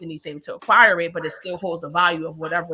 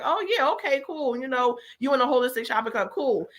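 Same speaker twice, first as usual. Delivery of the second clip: dismissive friends; 5 semitones higher than usual. Retold or imitated. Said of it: "it's like".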